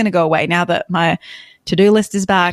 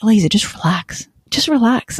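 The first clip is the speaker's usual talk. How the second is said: self-soothing; 3 semitones higher than usual. Retold or imitated. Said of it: "constantly telling myself".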